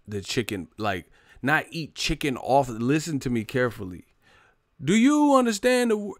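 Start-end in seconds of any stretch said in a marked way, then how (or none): 4.8-6.2 high, loud, emphatic demand; exasperated shout. Real, not acted. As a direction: yell it at the chat in disbelief. Insisting to chat, exasperated.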